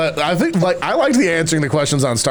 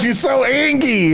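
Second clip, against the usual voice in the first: laughing; 10 semitones higher, slower than usual. Real, not acted. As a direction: coo it through a laugh. Cute baby talk laughing.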